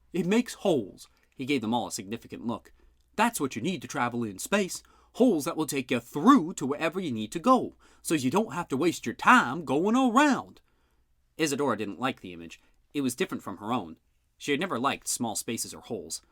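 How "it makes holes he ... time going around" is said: higher, louder, huffy argument; an insulted uncle telling off the sergeant; gruff indignant uncle. A narrator's reading. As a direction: snap back at a dim cop. Bud explains holes.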